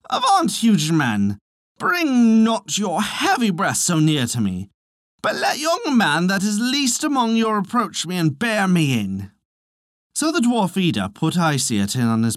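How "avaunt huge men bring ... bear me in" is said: alarmed cry. A narrator's reading. Wee man to the approaching giants, alarmed cry. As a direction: cry out to keep them back, voice raised in pitch. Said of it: "waved them back in alarm, crying".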